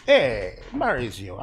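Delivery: loud Italian-style call, falling off; mock Italian. Painter calls to an imagined Mauricio, mock Italian. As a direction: call out with a caricature Italian lilt. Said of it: "they don't really talk like that".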